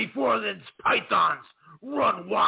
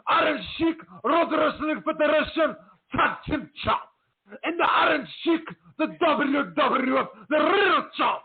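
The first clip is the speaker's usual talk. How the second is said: Iron Sheik impression; 8 semitones higher than usual. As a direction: bellow it like the Iron Sheik cutting a promo. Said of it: "a little Iron Sheik promo".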